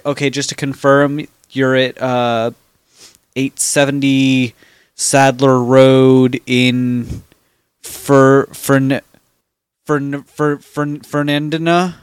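halting tech-support stumble over "Fernandina"; mispronounced Fernandina. Retold or imitated. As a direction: falter on "Fer-, Fern-", then land on "fer-NEN-di-nuh". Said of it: "listen to you try to pronounce".

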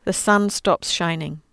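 measured storybook reading; reading to children. Acted. Reading the crucifixion story to listeners, storybook voice. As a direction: read gently to the children.

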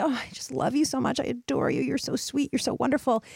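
high, gentle, doting voice into the mirror; loving mirror talk. Shown as a demonstration. Coach modelling mirror affirmations, high gentle doting voice. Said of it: "we do wanna say it with feeling".

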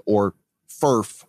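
ferf said as one blown word. Shown as a demonstration. Host spelling out the acronym as ferf. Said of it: "That sounds like one of your farts".

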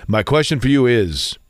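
low, grand magic genie voice; Robin the Genie voice. Shown as a demonstration. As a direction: boom like a genie from a bottle. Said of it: "I'm going to make up a genie voice now".

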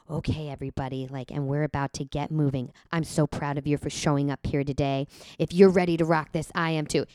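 close-mic lispy instructor voice; a light fitness instructor lisp with odd intonation; fitness influencer. Retold or imitated. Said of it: "I love doing the, uh, fitness instructor voice".

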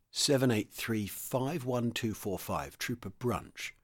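quiet voice. Acted. Squadron leader calling the accused before his desk, quietly and slowly. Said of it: "in a quiet voice".

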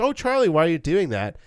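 brother's betrayal played as a big theatrical scream; mock screaming. Shown as a demonstration. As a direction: overact the plea like a melodrama.

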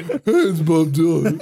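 slow, failed impression of a singer's voice; a weak stab at a singer's drawl; impression of a singer. Prank caller pretending to be a singer, slow mock drawl. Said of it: "I can't even do his voice".

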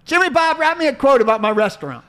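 lightly voiced Southern coach, drawled and folksy; Steve Spurrier impression. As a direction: play the old ball coach, a little hammed-up. S1 voicing Spurrier.

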